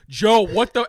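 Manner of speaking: loud, high shocked protest; mock alarm. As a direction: act out an aide aghast at the boss. Acts alarmed press secretary.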